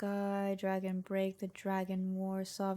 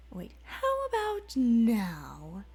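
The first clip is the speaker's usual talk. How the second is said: slow, louder, strange demon voice; menacing demon; 3 semitones higher, 6 dB louder, slower than usual. Acted. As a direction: draw out the threat. Demon voice strikes.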